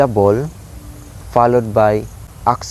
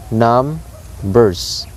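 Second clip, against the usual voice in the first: "numbers" split into NUM and BERS; trochaic stress. Shown as a demonstration. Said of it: "high stress sound".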